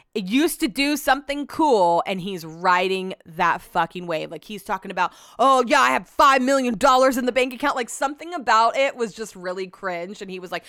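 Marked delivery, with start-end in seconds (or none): 5.4-7.8 loud mock bragging voice; mocking braggart. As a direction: puff it up like a show-off. Mocking a cringey guest.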